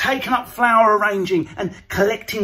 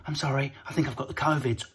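mock sick patient; 6 semitones lower, 9 dB quieter, faster than usual. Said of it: "the next week at hospital".

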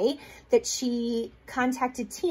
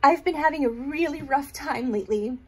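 tearful; 2 semitones higher than usual. Real, not acted. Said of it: "I'm gonna try to compose myself".

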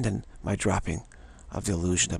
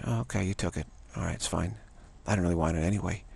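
softer, easygoing shrug of a voice; calm, unbothered dog; 3 semitones lower, 5 dB quieter, faster than usual. Retold or imitated. Dog letting the bone be taken, softly unbothered. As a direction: let it go gently, no fuss at all. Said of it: "won't be upset then".

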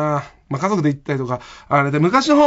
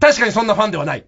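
fast, higher-pitched imitation of a boy calling out; loud child's heckle, imitated; 4 semitones higher, 4 dB louder, faster than usual. Schoolboy in the front row heckling the stage, imitated loud call. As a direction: blurt it out like a kid heckling. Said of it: "それがまあまあ大きい声で".

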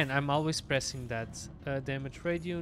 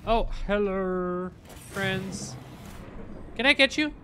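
cute voice for creatures; 3 semitones higher, 5 dB louder than usual. Acted. Greeting creatures in the game.

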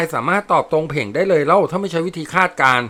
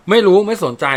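higher and louder sulky snap; petulant retort; 5 semitones higher, 5 dB louder than usual. A narrator's reading. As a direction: throw it back like a pouting girl. Young woman sulks in quarrel. (สวนกลับเสียงงอน)

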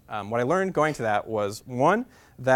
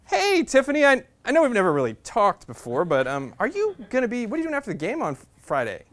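mock smooth; 9 semitones higher, 3 dB louder than usual. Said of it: "that's not what I said".

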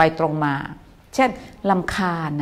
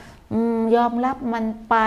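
resigned giving up; 4 semitones higher, slower than usual. Retold or imitated. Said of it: "ไม่รู้สึกว่า".

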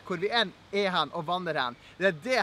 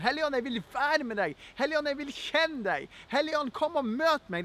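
higher-pitched, heartfelt appeal; modelled prayer, earnest and insistent; yearning prayer; 4 semitones higher than usual. Acted. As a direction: address the Spirit with open longing. Models praying to the Holy Spirit.

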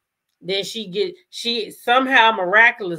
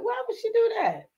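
mock baffled viewer; 14 semitones higher, 4 dB quieter than usual. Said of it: "we was like".

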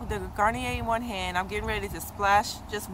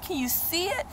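excited; 9 semitones higher than usual. Retold or imitated. Retold thrilled reaction.

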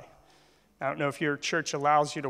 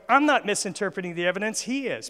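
lightly acted lawyer's retort, higher and quick; mock indignant courtroom comeback, pitched up; protesting attorney; 4 semitones higher than usual. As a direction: lightly play an attorney firing back at a rival. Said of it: "this one's going".

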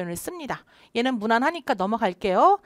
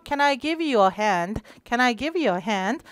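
slow model read; much slower than usual. Shown as a demonstration. Teacher repeats model slowly.

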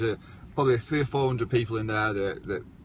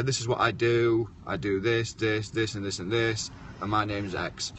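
flat recital; 2 semitones lower, 3 dB quieter than usual. Retold or imitated. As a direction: mumble the pitch like a bored rote intro. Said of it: "they just say".

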